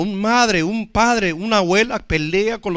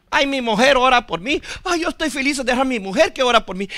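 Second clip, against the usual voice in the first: higher-pitched, lightly imitated husband; mock complacent husband; 5 semitones higher than usual. Husband leaving prayer to wife, lightly mocked contentment.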